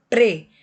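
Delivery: Pre as a lone syllable, P and R both heard; both consonants sounded. Shown as a demonstration. Teacher lets pupils hear both consonants, Pre sounded out. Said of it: "você ouve o som das duas".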